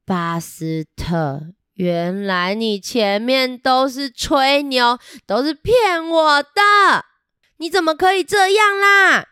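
hurt friend building to a reproach; upset scolding. Acted. Rex scolding Buster for lying, building anger. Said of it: "表情变得不太开心".

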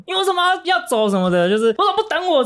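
high, sharp scolding yell; "why didn't you wait for me", acted as an angry shout; retold angry yell. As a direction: yell it at a friend who walked off. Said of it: "他就大喊".

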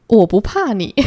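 said through a little smile, a touch of a laugh; smiling. Acted. Darcy teasing Elizabeth at the piano, smiling. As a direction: let a smile and a small laugh show. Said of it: "达西他居然就微笑着说".

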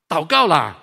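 put-on a small boy nagging his father to pray; little son calling. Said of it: "他就会来找我说".

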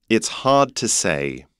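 non-rhotic British "hard", no R; British accent. Shown as a demonstration. Teacher modelling the line for learners in a British accent. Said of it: "要怎么用英国腔说呢".

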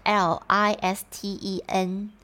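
slow letter-by-letter spelling. Shown as a demonstration. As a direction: spell each letter of listen slowly. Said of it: "它怎么拼呢".

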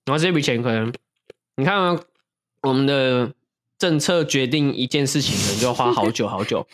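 talking while chewing ice; words around a mouthful of ice; mouth full. Real, not acted. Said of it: "要不要先吃完再讲？".

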